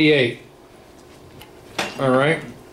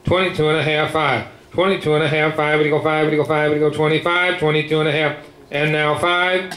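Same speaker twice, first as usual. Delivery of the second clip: rapid rolling bid chant; auctioneer; faster than usual. Real, not acted. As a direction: rattle off the bids like an auctioneer.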